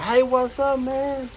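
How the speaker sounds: a casual hello from a stranger, lightly acted; man's greeting. Man greets preacher at conference.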